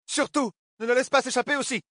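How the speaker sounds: high, loud squeal. Acted. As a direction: squeal it like a pig. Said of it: "couina-t-elle comme une truie". (couinement aigu comme une truie)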